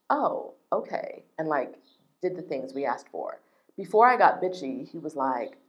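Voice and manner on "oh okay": slow, high, drawn-out oh okay; mock meek backing down. Imitating the sales manager caving after she pushed back. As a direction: sound like he suddenly gave in.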